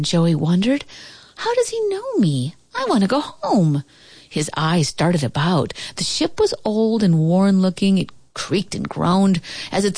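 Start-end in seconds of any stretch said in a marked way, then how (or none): 1.4-3.8 put-on worried boy. A narrator's reading. Frightened boy wonders.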